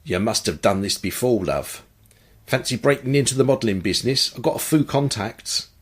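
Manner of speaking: a light, jokey touch of Cockney; lightly put-on Cockney chat-up line; hint of a Cockney charmer; semi-Cockney accent. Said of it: "he adopted a semi-Cockney accent".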